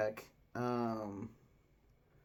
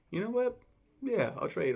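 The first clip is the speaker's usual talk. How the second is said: mock excited agreement; 10 semitones higher, 5 dB louder than usual. Wife agrees to trade burgers.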